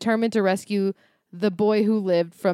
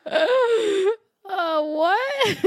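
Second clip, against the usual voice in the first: laughing; 12 semitones higher than usual. Real, not acted. Laughing while reading.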